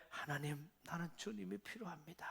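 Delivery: soft, hushed plea to God; a soft, humble prayer. Pretend. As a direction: pray it quietly, humbly.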